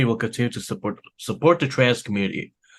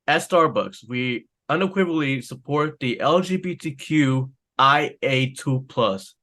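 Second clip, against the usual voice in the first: corporate statement; 2 semitones higher, slower than usual. Retold or imitated. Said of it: "quote unquote".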